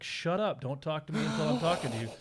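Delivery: retold cop's sharp order; stern deputy. Deputy orders frightened girl silent.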